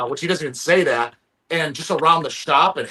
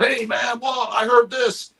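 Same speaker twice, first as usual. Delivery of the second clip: nosy caller; 7 semitones higher, slower than usual. Retold or imitated. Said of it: "He wants a bunch of people to hit him up".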